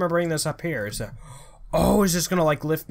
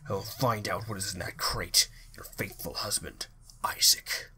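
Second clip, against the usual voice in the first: lightly voiced sailor reading his letter, sinking into a whisper; a hint of a haunted seaman writing home; reading a letter in character; 3 semitones lower, 4 dB quieter than usual. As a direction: read it as the worried husband, fading to a hush. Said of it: "what voice did I give this guy".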